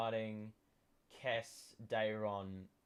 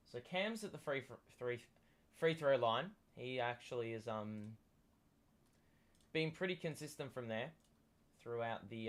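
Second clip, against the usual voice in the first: sports commentary. Acted. Live game play-by-play.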